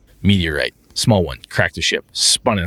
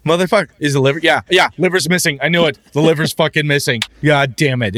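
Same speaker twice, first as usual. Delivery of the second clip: frustrated player rant; 7 semitones higher, 3 dB louder than usual. Retold or imitated.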